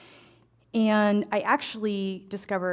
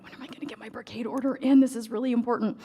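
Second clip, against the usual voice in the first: panicked; 4 semitones higher, faster than usual. Retold or imitated. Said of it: "like, panicked".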